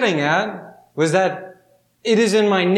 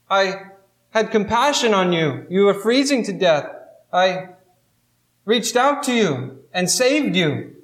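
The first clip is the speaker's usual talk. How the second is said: higher, hurt and baffled plea; pleading old pilgrim; 4 semitones higher than usual. Acted. Old pilgrim pleading with the snake, lightly voiced hurt. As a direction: ask why like a betrayed old man.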